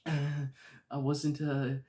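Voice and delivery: high, loud flustered voice with a laugh; stammering a cover story; nervous Peter. Retold or imitated. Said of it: "he's like".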